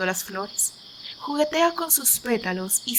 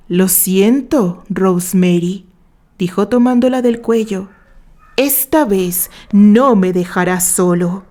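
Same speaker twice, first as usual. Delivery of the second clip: cold apology; 11 dB louder than usual. Acted. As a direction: say it as you tighten your grip. George strangling Rosemary.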